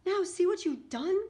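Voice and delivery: high, loud reproachful outcry; crying out. A narrator's reading. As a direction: cry out in alarm and blame. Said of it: "cried Bombolona".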